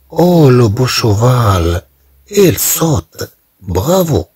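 bright, high-pitched cheer for the jumping horse; encouraging cheer. Shown as a demonstration. Teacher showing students how to cheer, encouraging. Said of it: "تشجيع".

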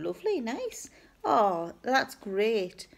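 mildly gushing, clueless approval; lightly mock a keen listener; pretend enthusiasm. Replying to uncle's talk of an operation, mildly enthusiastic. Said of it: "Pretending to be really enthusiastic about what he's telling me".

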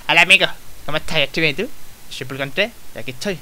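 lightly voiced Pikachu who speaks Spanish; a hint of a cartoon mascot voice; Pulgonté. Player demonstrating the voice of a plush character, lightly put on. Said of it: "su voz era".

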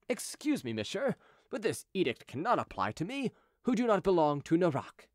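Chicot, politely protesting. Acted. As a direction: object courteously, pleading your exemption. Chicot figure in story narration.

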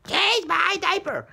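put-on high, slow whiny baby. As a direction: beg like a fussy baby. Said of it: "Baby Boof always has bad diapers".

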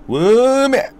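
전라도 사투리로 크게 외치는 "웜에!"; Jeolla dialect shout. Retold or imitated. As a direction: fling out "웜에!" like a comic Jeolla gag. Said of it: "전라도 사람은 뭐 약간 이런 식으로 막 한다고".

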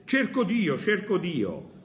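loud, high desperate cry; madman shouting. Acted. Madman in the market crying out, loud and high. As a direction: call out for God across the market. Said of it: "si mise a gridare incessantemente".

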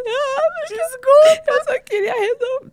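loud, very high sobbing apology; hammed-up blubbering squeal; mock crying. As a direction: wail it out in exaggerated tears. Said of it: "Aí eu já comecei a chorar".

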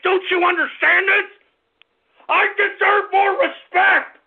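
shouted demand for respect; angry shout. Real, not acted. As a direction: hammer each word home.

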